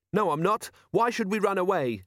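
lightly voiced high young boy, protesting; a hint of a stubborn teenage boy; defiant boy. A narrator's reading.

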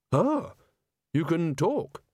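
high, sudden surprise; startled yelp. Acted. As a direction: jump at the discovery. Rincewind startled.

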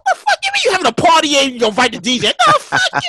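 high, shouted Brooklyn outrage; hammed-up Brooklyn yell, pitch way up. DJ acts out his angry DM to the promoter in a Brooklyn voice. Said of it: "This is his Brooklyn voice".

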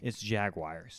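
Jaguars said slow as jag-wires; Southern jag-wires; local Jaguars. Shown as a demonstration. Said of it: "we say Jaguars".

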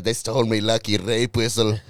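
light put-on Irish brogue; jokey Irish lilt; mock Irish accent. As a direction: play a wronged leprechaun in mock Irish. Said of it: "And this Irish is just".

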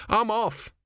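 nervous workman throws in the towel; fed-up builder. Acted. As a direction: drag it out in disgust. 2A quits.

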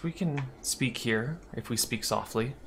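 softly, keeping it down; low voice. Acted. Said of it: "she says in a low voice".

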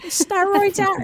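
put-on high, drawn-out Delco accent; Delco aunt impression. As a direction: mimic a friend's aunt in shrill, slow Delco. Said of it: "he does impressions of her".

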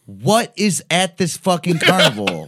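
half-mock frustration boiling over; exasperated. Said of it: "And you're like".

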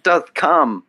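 slow, lofty Shakespearean put-on; mock Shakespeare. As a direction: declaim it like hammy Shakespeare. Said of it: "Shakespeare, you know".

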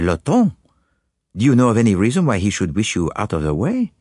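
calm Belgian sleuth probing gently; Poirot. Acted. Poirot questions his anxious client, calm and probing.

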